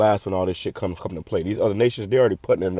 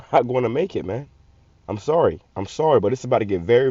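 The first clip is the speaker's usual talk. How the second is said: ordinary talk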